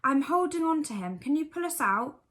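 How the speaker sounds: an excited rabbit straining. A narrator's reading. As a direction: rabbit calling from the dark under the bed.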